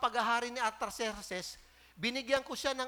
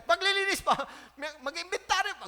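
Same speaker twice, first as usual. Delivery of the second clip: mild mock grumble; 5 semitones higher, 5 dB louder than usual. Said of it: "galit na galit".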